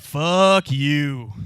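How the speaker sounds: loud crowd shouting at once; mock crowd yell. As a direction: bark it like an angry crowd. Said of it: "the whole crowd as one just kinda said".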